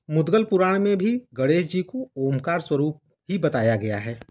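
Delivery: measured reading of a devotional text; formal Hindi scripture-book reading; formal read-aloud. Acted. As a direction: read the preface out clearly, phrase by phrase. Reads book's preface aloud.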